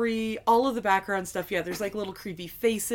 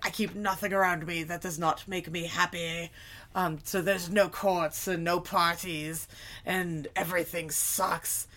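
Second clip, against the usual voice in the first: King Hagrid; 4 semitones lower, 4 dB quieter than usual. Acted. Joyless king explaining his court, low and dour. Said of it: "And King Hagrid's like".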